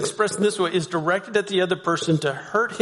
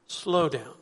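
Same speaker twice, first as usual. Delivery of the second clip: gentle suggestion. Shown as a demonstration. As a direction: ease it out calmly. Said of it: "just hear that difference".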